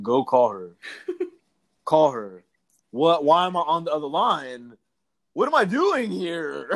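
real laughter breaking through baffled questions; laughing disbelief. Real, not acted. Speaker laughing at the friend's absurd call, amused disbelief. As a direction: laugh at how silly it is.

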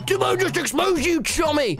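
high-pitched mock-hysterical cry; gleeful yell. A narrator's reading. Austin crowing over an exposed secret, high gleeful yell. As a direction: yell it as if breathless with glee. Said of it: "Austin yells through gasps of laughter".

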